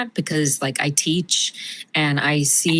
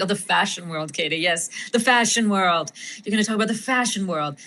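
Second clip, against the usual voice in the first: lightly put-on pretentious fashionista accent; Pamela's affected accent. Actress as her character talking fashion to Katie, affected accent. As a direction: relish it in an affected society accent. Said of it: "I see how you got the accent going".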